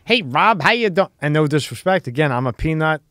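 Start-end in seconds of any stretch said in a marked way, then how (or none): 0.1-1.1 a touch of a prim host voice; co-host teases the host's weird way of talking; mock Tony greeting. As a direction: lightly mimic the odd host greeting. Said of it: "He talks weird".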